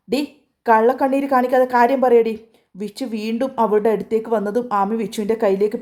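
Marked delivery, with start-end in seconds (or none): 0.1-2.3 higher, louder, snarling demand; angry. Acted. Vichu to his crying sister, angry. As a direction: cut through her fake tears.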